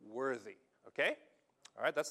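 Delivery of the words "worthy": slow emphatic quote. Shown as a demonstration. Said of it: "The literal translation is".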